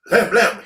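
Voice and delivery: two loud, punchy "blam"s; imitated impact. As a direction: punch out two sudden hit noises. Imitates dog hitting the man.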